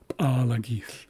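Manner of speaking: P'alagith opened with a popped P; ejective P. Shown as a demonstration. Teacher repeats the Haisla word for learners, ejective P. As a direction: say "P'alagith" with a sharp ejective start. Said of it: "what we call, uh, ejective Ps".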